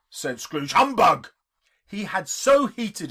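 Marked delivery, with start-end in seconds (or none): 0.7-1.3 loud, higher sneer; scornful humbug. Acted. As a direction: dismiss it with contempt. Scrooge scoffs at nephew.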